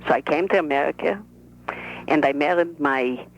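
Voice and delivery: a lightly voiced shy old Russian grandmother; other grandmother. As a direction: speak as the careful, reserved grandmother. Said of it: "This is the other grandmother speaking".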